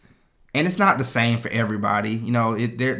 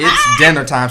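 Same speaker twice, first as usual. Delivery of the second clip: louder, giggling through the words; laughing; 3 semitones higher, 10 dB louder than usual. Real, not acted. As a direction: crack up mid-quote. Laughing at his own joke.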